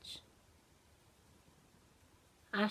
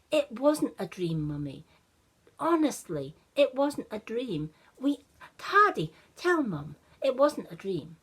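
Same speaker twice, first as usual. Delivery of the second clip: put-on a lightly higher, louder child pleading; insistent little boy; 3 semitones higher, 4 dB louder than usual. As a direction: bocah kecil bersikeras, suara sedikit lebih tinggi.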